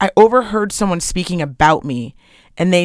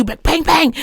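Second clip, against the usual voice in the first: imitated pistol shots, pitched up; higher-pitched make-believe bangs; mock gunfire; 6 semitones higher than usual. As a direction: fire off quick verbal gunshots. Imitating gunfire in retold banter.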